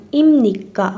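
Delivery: ایم نیکا with a clear m, not ایب. Shown as a demonstration. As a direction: say ایم نیکا with a nasal م before نیکا. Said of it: "ایب نیکا نباید بگین". (ایم نیکا با م، نه ب)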